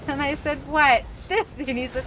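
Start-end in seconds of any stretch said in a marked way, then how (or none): 0.7-1.6 loud, high exclamation; mock shock. Agent reacts to caller's teasing news, mock shock. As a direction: blurt it out in exaggerated alarm.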